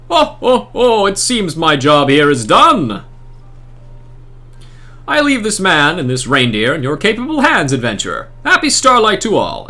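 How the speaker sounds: lofty, theatrical holy man addressing a scholar; grand saintly NPC. Acted. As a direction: proclaim it like a pompous festive saint. Saint bids farewell.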